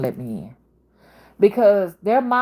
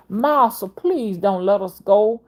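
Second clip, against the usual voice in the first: pleading servant's voice; 2 semitones higher than usual. Retold or imitated. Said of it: "I'm just doing a narration of what they talked about".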